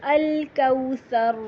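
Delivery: الکوثر ending in a heavy ra, slow. Shown as a demonstration. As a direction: give the final ra of الکوثر a heavy sound. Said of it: "را جو ہے وہ موٹا ہوگا". (الکوثر میں موٹا را)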